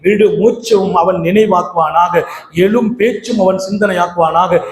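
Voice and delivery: measured, rhythmic prayer cadence; closing supplication. Acted. Preacher prays for congregation and their families, closing supplication. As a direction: recite each blessing as a steady plea.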